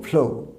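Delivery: "ফ্লো" ending on a w glide; w sounded. Shown as a demonstration. Teacher repeating the corrected word, w-glide. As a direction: round off "ফ্লো" into a w. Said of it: "ডব্লিউ সাউন্ডটা দেবো".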